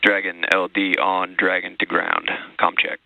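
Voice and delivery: astronaut radio. Real, not acted. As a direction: call it over the comm loop. Launch director over radio.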